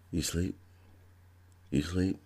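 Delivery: soft, quiet question; hushed. Retold or imitated. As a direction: check if he's asleep, softly. Whispering at night to roommate.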